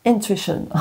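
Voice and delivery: slow, careful English accent from a French speaker; a French reader trying hard at an English accent; slow English accent attempt by a French card reader. Shown as a demonstration. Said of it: "La meuf qui essaye de faire l'accent anglais".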